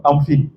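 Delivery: "fine" said as "feen" in "I'm fine"; mispronounced "fine". Shown as a demonstration. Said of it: "la prononciation est très".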